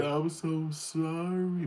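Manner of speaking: high, very slow insincere drawl; slow high mock apology; fake apology. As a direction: stretch out a fake sorry. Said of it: "But you're really not sorry".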